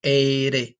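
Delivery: "Ere" with a quick tongue tap; rolled R. Shown as a demonstration. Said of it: "you wanna roll your tongue".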